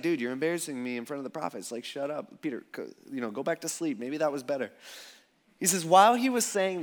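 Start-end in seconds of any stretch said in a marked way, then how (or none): 0.0-4.7 hushed rebuke. Retold or imitated. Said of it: "He's just like".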